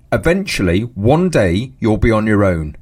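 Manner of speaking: a hint of a cat plotting revenge; mock threat from a staring cat; menacing cat voice. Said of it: "That's what the cat said".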